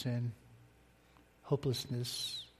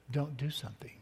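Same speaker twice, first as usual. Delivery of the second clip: whispered warning; 4 dB quieter than usual. Retold or imitated. God's quiet warning.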